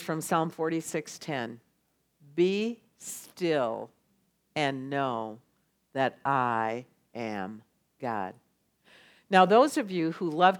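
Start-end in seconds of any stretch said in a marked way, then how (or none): 2.3-8.3 low, soft and slow; calm voice of God. Retold or imitated. God answering the anxious one, calm and soft. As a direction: still the listener with a gentle command. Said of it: "you hear his voice".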